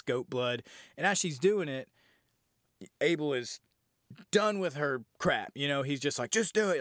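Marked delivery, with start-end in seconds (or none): 6.3-6.8 high-pitched imitation of a scream; mock yell. Abel yelling at Cora to finish, mock yell. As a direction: push it up like a half-held yell. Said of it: "he's screaming at her".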